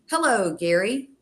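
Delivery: restrained calm. Retold or imitated. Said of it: "after I went through this training".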